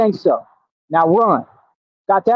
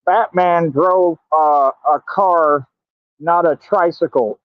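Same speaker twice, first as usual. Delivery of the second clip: slow, drawn-out lightly voiced old lady; a hint of a fussy old lady, very slow; mock old lady; slower than usual. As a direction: imitate an old lady lecturing slowly. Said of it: "some old lady walk up and say".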